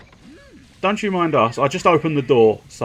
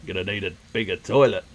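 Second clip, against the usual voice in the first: lightly put-on Australian accent, quick and lower; 3 semitones lower, faster than usual. Player reworks the Jaws line for toilets, light Australian accent. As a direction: toss off a film parody in rough Australian. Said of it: "why he's gone Australian".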